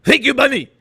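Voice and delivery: loud, high German accent shout; yelled German accent. Shown as a demonstration. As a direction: bark it out in a hammy German accent. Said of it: "You just yell a lot".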